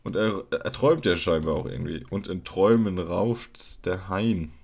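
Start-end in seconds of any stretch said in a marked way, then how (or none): 2.1-4.5 measured verse reading, fading softer; Gedichtvortrag. Acted. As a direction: recite the last verse calmly, dropping off at the end. Liest die letzte Strophe vor. (ruhig verklingender Gedichtvortrag)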